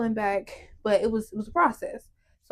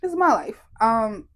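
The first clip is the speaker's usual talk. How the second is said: retold yell; 4 semitones higher than usual. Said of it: "I just yelled".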